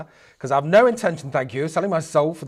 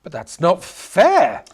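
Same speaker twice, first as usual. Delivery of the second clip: put-on slow, louder childish complaint; whiny protest; 5 dB louder, much slower than usual. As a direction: drag it out like a sulking kid. Man protests the demon's deal.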